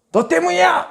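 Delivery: high shouted blame; accusing yell. Retold or imitated. Shipmates yelling at Jonah in accusing shout. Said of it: "막 이러면서".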